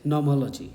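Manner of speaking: teacher's confirming model of "nomology"; correct pronunciation. Shown as a demonstration. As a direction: say "nomology" carefully as no-MOL-uh-jee. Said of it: "और ये correct है".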